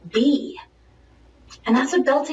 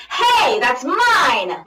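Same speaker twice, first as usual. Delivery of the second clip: calling voice; 3 semitones higher, 5 dB louder, much slower than usual. Shown as a demonstration. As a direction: call it out like you mean it. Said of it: "this as your calling voice".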